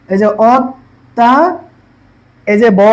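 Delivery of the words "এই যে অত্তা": অত্তা said slowly with the ত doubled; slow down on অত্তা to show the double ত; slow pronunciation demo. Shown as a demonstration. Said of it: "দুবার দ্বিতীয় উচ্চারণ হবে". (অত্তা ধীরে, ত দুইবার উচ্চারণ করে)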